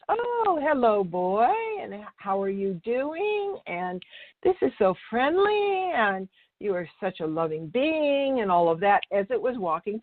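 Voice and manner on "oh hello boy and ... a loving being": gentle, loving hello to an approaching dog; calm loving voice. Retold or imitated. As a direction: greet the dog like an old friend, soothing it. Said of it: "in a very calm, loving voice".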